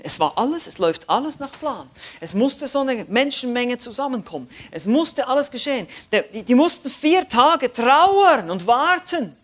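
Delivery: von ruhig zu laut und hoch, immer drängender; predigend steigernd. Acted. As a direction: steigere dich Satz für Satz in die Predigt. Preacher builds intensity. (Predigt, die zu vollem Feuer anwächst)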